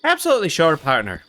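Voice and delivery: bad Irish accent, pitch dropping at the end; hammy fake Irish assurance; Barnaby Gallows. Undercover man assuring he's no robber, bad Irish accent. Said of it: "my bad Irish accent sound?".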